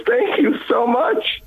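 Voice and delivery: high, slow heartfelt thanks; retold gratitude. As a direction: imitate a deeply grateful woman. Grateful clerk voiced in story.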